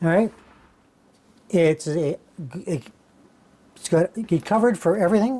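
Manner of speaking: halting, stammering, tripping over the words. Showing where the radiator goes for water cooling, stammering. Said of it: "I'm stammering here".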